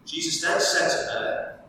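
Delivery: measured, steady Bible reading to the congregation; reading aloud from the Gospel; scripture reading. Acted. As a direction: read the passage with care. Preacher reads scripture passage aloud.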